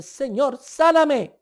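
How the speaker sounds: high, loud, mock wailing prayer; a hammed-up tearful cry for healing; mock tearful plea. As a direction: whine it up to God like a crybaby. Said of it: "estamos llorando y diciéndole".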